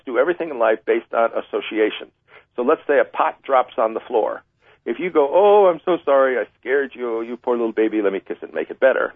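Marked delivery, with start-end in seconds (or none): 5.3-9.1 coddling parent. Retold or imitated. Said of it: "like some parents do".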